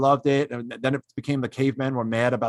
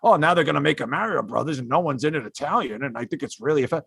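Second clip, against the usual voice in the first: mock offended celebrity. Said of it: "famous Italian people be like".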